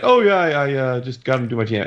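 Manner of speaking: high-pitched breezy mimicry; mock eagerness. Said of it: "Dap was like ... It wasn't like that".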